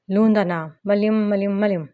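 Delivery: lightly voiced stubborn little boy, r as l; a touch of childish stubbornness; stubborn lisping child. A narrator's reading. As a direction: insist like a lisping toddler. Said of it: "ज़िद्दी अंदाज में बोला".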